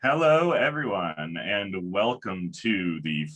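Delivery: big, booming event host welcome; announcer voice. Acted. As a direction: open the show like a stage announcer. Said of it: "that's my announcer voice".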